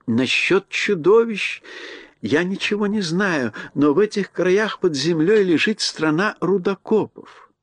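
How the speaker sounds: gracious little queen, drawn out; mouse queen voice. Acted. Queen tells of miners.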